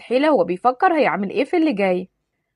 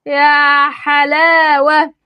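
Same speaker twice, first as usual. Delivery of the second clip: very slow, louder drawn-out mock wonder; sarcastic wow; 3 semitones higher, 7 dB louder, much slower than usual. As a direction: stretch it out in disbelief. Taha stunned by her name.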